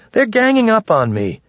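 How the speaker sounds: very high-pitched plaintive complaint; Snoopy's wailing appeal. A narrator's reading. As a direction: plead for help in a high, whining voice. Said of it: "Snoopy appealed to Bowman's".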